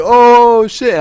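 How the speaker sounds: loud, high drawn-out whoop; big mock-crowd holler; imitated crowd reaction. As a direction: whoop like a crowd seeing a punch land.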